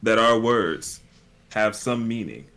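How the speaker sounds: drawn-out mock-profound oratory; hammed-up sincere pronouncement; cheesy speech. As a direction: pause between phrases for cheesy weight. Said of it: "some sort of really cheesy speech".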